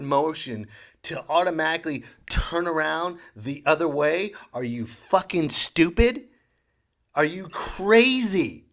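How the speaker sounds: outraged at a dumb order; exasperated rant. Retold or imitated. Dad exasperated at the announcer.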